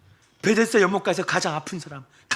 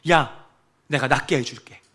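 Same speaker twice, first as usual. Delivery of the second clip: gentle Jesus paraphrase. Retold or imitated. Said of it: "이것은 다른 말로".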